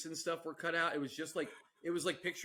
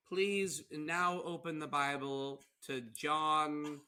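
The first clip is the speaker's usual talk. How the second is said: imitated preacher; slower than usual. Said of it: "you know, you'll have".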